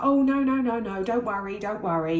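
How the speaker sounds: high, loud, rushed no-no-don't-worry; a trainee midwife hiding her panic behind a bright voice; flustered reassurance. Retold or imitated. Trainee midwife to a worried mother, high flustered reassurance.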